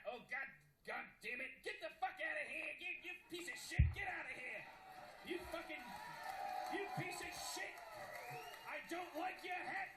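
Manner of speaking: high, shouted mock Australian; bad Australian accent. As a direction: yell like a fed-up Australian, badly faked. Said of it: "I can't do an Australian accent".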